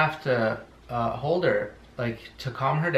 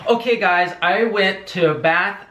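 lightly hammed-up excited YouTuber; a touch of gushing vlogger voice; mock YouTuber; 3 semitones higher, 4 dB louder than usual. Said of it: "here's my impression of a ... candle haul".

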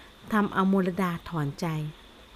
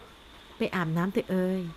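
slow, softer, gently coaxing; soft tender voice; 4 dB quieter, much slower than usual. Acted. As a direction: ease her toward the bath, tender and slow. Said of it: "ด้วยน้ำเสียงที่อ่อนนุ่มขนาดนั้น".

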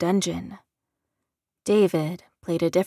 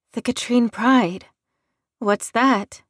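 sudden loud surprised question; 4 semitones higher, 6 dB louder than usual. Acted. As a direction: blurt it out in surprise.

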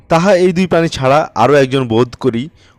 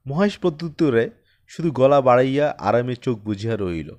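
plain reading voice

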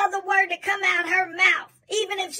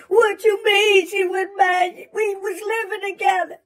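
indignant protest; 3 dB louder than usual. Retold or imitated. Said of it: "He said".

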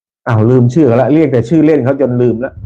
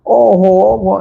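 mock exclaim; 7 semitones higher, much slower than usual. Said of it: "ช่างตั้มร้องเสียงดังเลย".

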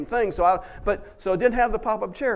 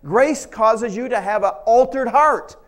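louder, pressing pulpit delivery; preaching at full force; 4 semitones higher, 7 dB louder than usual. Acted. Pastor pressing grace on the congregation, preaching at full force. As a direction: drive the point home with force.

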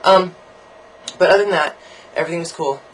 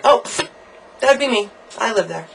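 mock proud confession; 8 semitones higher, 5 dB louder than usual. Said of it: "I'm like".

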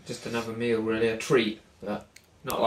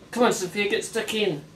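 cheering; 10 semitones higher, 4 dB louder than usual. Real, not acted. Cheering on baby.

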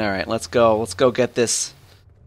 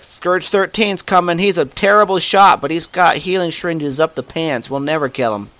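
higher, louder panicky enemy soldier; mock enemy chatter; 6 semitones higher, 5 dB louder than usual. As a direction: imitate nervous guards fearing him. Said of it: "they're like".

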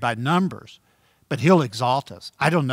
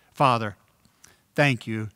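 closing prayer. Real, not acted.

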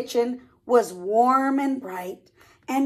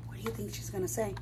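quick soft question; hushed; 6 semitones lower, 13 dB quieter, much faster than usual. Real, not acted. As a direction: ask it quickly and quietly.

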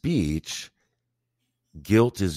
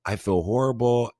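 mock guilty apology; 5 semitones higher than usual. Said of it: "And it was like".

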